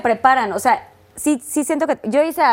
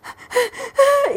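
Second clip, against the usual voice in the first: high mock crying; high, hammy sobs; imitated sobbing gasps. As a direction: act out a burst of sobbing. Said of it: "y yo así de".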